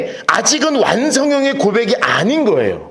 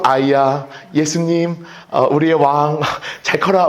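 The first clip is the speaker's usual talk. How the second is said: tender prenatal talk; 7 semitones lower, slower than usual. Pretend. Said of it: "배에다가 손을 얹고".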